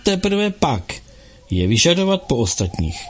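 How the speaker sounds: klidně a pomalu; rozvážně, bez hněvu. Acted. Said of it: "klidným hlasem odpověděl". (klidným hlasem)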